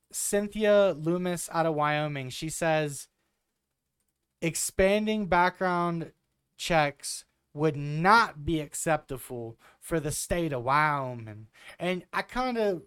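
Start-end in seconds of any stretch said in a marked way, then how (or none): 4.4-11.5 put-on slow, light country accent; slow mock country accent. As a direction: drawl it out like a rural Wyoming senator. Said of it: "picture her saying it with a country accent".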